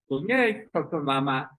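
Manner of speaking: big sister with top jaw pushed out; mouth-distorted bedtime call; lightly acted odd-jawed sister; upper jaw forward. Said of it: "the upper jaw is forward".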